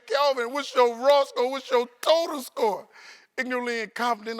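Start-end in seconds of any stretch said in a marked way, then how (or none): 0.1-2.9 slow, louder, higher probing teacher; teacher questioning. Retold or imitated. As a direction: ask it slowly like a strict teacher. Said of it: "She said".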